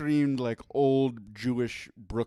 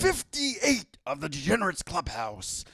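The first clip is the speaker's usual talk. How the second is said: boxing ring announcer; 5 semitones higher than usual. Acted. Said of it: "I'm doing my ring announcer voice".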